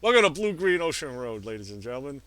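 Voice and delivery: hammy radio ad voice; mock ad read. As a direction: sell it like a cheesy sponsor spot. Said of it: "that one sucked".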